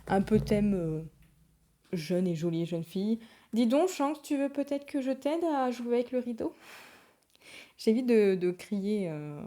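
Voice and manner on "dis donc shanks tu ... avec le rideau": higher, mock-questioning telling-off; raised pitch, drawn into a pointed question; mild scolding of a pet. Real, not acted. Owner asks the cat playing with the curtain, mild scolding.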